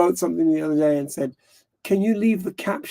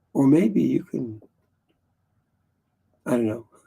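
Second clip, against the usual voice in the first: cracking voice, pitched lower; 4 semitones lower than usual. Talking to Stevie after finishing your drink, voice cracking. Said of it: "my voice is cracking".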